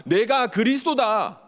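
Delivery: slow, high-pitched triumphant declaration, lightly acted; a hint of majestic proclamation; glorious Christ. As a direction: proclaim it slowly, as if in glory. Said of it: "영광스러운 모습으로 이렇게 말씀하시기를".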